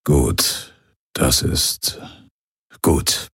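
put-on old pirate barely holding it together; choked up. A narrator's reading. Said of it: "Vagos Abbild schlucken".

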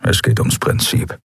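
low, rough creature voice; deep grumbling alien; gruff grudge. Acted. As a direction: growl out the hatred, slow. Keru growls his grudge.

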